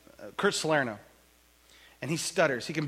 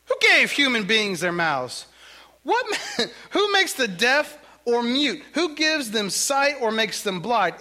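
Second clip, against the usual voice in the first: slower, louder, a touch of God's stern voice; inflected reading of God; 9 semitones higher, 6 dB louder than usual. Acted. Preacher reads God answering Moses with gentle authority. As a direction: read God's reply with weight and lean in. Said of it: "I read with a little, you know, inflection there".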